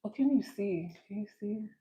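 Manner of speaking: choppy broken-up stream audio; glitching robot. Real, not acted. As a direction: voice cutting out like a robot. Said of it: "Now I sound like a broken robot".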